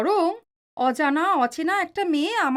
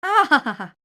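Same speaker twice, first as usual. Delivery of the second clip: teasing laugh. Acted. Wife teasing husband.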